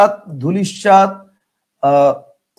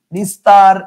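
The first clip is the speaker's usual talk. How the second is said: emphatic example; 7 dB louder, much slower than usual. Shown as a demonstration. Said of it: "তাহলে খেয়াল করেন".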